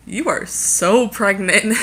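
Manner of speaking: slow, laughing retelling of mom's line; laughing through it. Retold or imitated. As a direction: let the laugh spill through each word. Mom's remark retold, laughing.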